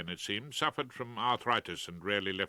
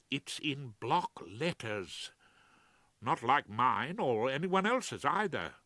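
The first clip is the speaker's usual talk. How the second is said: Claude, anxious; 3 semitones higher, slower than usual. Acted. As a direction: voice a nervous barrister pleading. Claude's voice in the reading.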